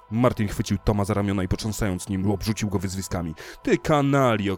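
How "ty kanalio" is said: furious shout of insults. A narrator's reading. Martin screaming insults at Tom, furious shout. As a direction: hurl it at him like an accusation. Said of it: "krzyczał".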